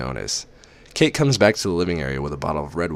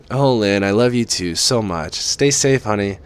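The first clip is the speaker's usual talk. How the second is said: higher, loving mother; mother pleading her daughter to visit home; mother's voice; 3 semitones higher, 4 dB louder than usual. Acted. Mother's voice on the phone.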